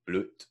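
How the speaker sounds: "blut" said the German way with an oo vowel; "blut" with a German vowel and final t. Shown as a demonstration. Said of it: "Germans get a change in the vowel and the consonant".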